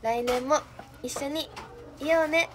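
wooden, read-off romantic line; awkward flat delivery of a sweet line; stiff line reading. Pretend. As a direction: recite it stiffly like reading a script. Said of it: "めっちゃくちゃ棒読みになっちゃった".

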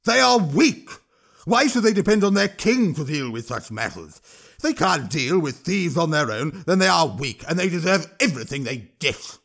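high, loud troll rant; a troll shouting over the crowd. Acted. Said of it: "Throch himself was shouting".

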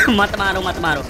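pleading broken up by coughs; coughing. Pretend. Player begging not to be shot, coughing. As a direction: splutter and cough through the plea. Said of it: "बहुत गोली मारी से खांसी आ गई है".

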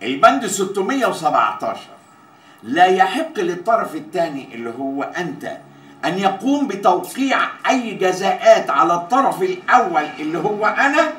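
official clause proclamation, slowing on the last words; formal contract reading. Acted. Boss forbidding any penalties against himself, formal proclamation. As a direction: lay down the law clause by clause.

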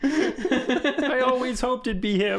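high, slow tiny lizard voice; honored little lizard, squeaky. Pretend. Voicing lizard being eaten.

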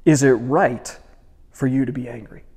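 measured, pointed challenge with a pause midway; pointed question. Acted. God questioning angry Jonah, pointedly. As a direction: hit the first words, then ease off. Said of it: "very pointed question".

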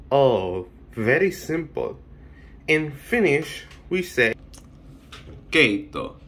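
low, understated Finnish character; lightly played low-voiced Finn; playing Finland. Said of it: "Finland. How did you say soup".

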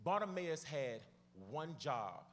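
slowed down, paused before "one job"; deliberately slow. Real, not acted. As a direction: let each phrase land, unhurried. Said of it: "I'ma go slow".

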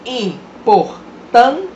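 "importância" slow, split "im-por-tân-cia"; slow syllabified "importância"; syllable by syllable. Shown as a demonstration. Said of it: "eu fiz uma separação silábica".

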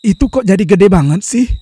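loud, startled question. Acted. Husband gapes at wife's sagging ghost body, loud startled question. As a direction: blurt it out in shock.

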